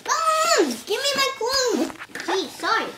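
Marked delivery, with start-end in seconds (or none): 0.1-1.9 yelling for mom. Acted. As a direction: shout for mom in embarrassment. Child yelling for clothes.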